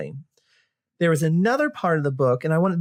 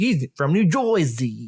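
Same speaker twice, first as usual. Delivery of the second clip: slow, hammed-up New Jersey in New York accent; mock New York accent; slower than usual. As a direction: stretch it out like a mock New Yorker. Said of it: "he was like".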